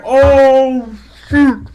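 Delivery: high, loud "oh" of sudden alarm; excited yelp. Retold or imitated. Reliving the fight for listeners, high excited yelp. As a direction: yelp it like the choke just sank in. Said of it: "I was like".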